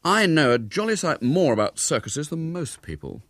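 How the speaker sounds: hint at secret knowledge; mysterious. A narrator's reading. William boasts of circus knowledge to rivals, mysterious. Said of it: "said William mysteriously".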